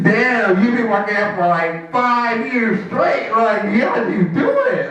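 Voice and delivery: high-pitched, drawn-out awe; amazed admirer. Acted. Admirer asking about years of working out, amazed. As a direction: play up the impressed disbelief.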